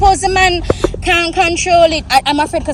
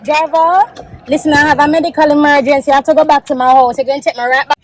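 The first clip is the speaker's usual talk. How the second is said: demanding. Real, not acted. Demanding the driver take her back.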